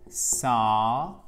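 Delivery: saw with a long, drawn-out vowel. Shown as a demonstration. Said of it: "une voyelle longue".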